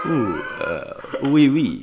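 put-on a light French accent, playful. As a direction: toss off a quick French oui oui. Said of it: "You do a great French accent".

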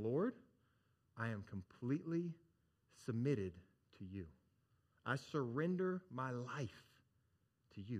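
softly voiced prayer of surrender; reverent prayer. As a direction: pray it softly, with pauses between phrases. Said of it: "what they're doing is they're saying".

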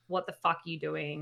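low warning. Retold or imitated. First warning to man touching her.

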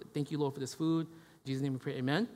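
imitating a mindless, chant-like table prayer; rote mealtime prayer. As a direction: mumble through a habitual grace, softly. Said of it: "like a chant that we've gotten used to saying".

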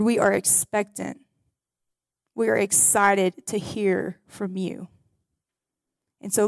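soft, earnest prayer voice. Acted. Pastor praying over the congregation, soft and earnest. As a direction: pray over the room, hushed and sincere.

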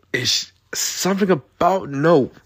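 high, slow awed whisper; breathy whisper. Real, not acted. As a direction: breathe it out in awe. Awed praise of favorite film.

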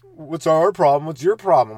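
slow, mocking kids talking back; sassy kids. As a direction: throw the question back at him. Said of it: "They're like".

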